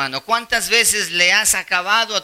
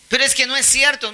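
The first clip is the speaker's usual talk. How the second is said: réplica aguda del ofendido; protesta imitada; 8 semitones higher than usual. Retold or imitated. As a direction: imita a quien protesta por una calumnia. (protesta fingida)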